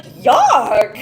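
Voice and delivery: slow, loud, drawn-out yuck of disgust. Real, not acted. Reacting to the twin comment with a loud, slow, disgusted yuck. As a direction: recoil from the words with a drawn yuck. Reacting to his creepy line.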